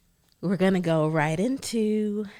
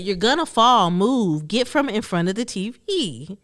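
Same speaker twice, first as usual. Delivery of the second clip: raised voice, big sister scolding; a bossy order, louder than her chat; bossy warning; 4 semitones higher, 4 dB louder than usual. Retold or imitated. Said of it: "She said".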